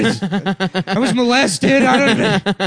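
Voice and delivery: high, loud wailing demon apology; whiny demon. Pretend. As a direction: wail it like a pathetic demon. Voicing a sad impotent demon.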